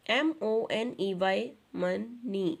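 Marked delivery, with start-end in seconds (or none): 1.8-2.6 MONEY in two separate beats, mo, ney; split into syllables. Shown as a demonstration. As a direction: break "money" into two syllables with a short gap. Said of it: "two syllable word".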